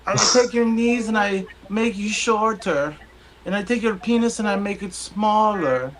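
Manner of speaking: the doctor blurting out his mistake, high; panicked doctor. Acted. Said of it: "the doctor comes in and he goes".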